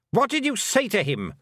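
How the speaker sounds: high, urgent, angry question; demanded. A narrator's reading. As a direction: demand it as an alarmed queen, pitched high. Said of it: "the Queen demanded".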